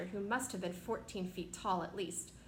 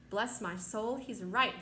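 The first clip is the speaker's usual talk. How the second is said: exclaiming; 4 dB louder, slower than usual. Acted.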